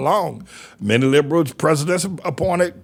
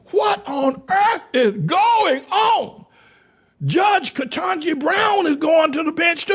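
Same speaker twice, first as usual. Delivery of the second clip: outraged shout. Real, not acted. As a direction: rail at them in disbelief. Outraged rant about marriages.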